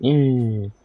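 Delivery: high, drawn-out whimpering "mm"; small put-on whine; imitated crying whimper. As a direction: mimic a kid starting to cry. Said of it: "I started crying".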